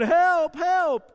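high, loud cry of help, half-acted; retold scream for help. Preacher retelling his childhood near-drowning, yelling high and loud for help. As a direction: relive the drowning kid yelling for the lifeguard. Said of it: "I'm screaming".

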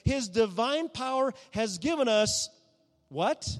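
loud, emphatic sermon; fervent preaching. Acted. Pastor stresses abundant grace to the congregation, loudly. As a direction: drive the point home to the church.

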